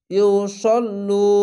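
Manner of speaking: ইউসল্লু slow, the vowel held one beat; one-beat stretch. Shown as a demonstration. Teacher reciting for the class, slow stretched reading. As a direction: draw out ইউসল্লু slowly. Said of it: "এক আলিফ টেনে পড়বেন".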